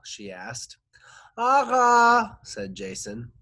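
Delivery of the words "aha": mouth wide open. Acted. Patient answering with mouth open.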